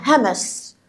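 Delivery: fully whispered, no voice in it. Shown as a demonstration. Teacher showing third graders what "hams" means, whispering. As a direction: whisper the word to show its meaning. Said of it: "يعني تحدث بصوت منخفض".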